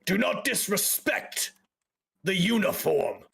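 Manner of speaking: slow, measured officer's rebuke; stern guard captain. Acted. Guard captain rebukes laughing travelers, stern. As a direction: put them in their place, slowly.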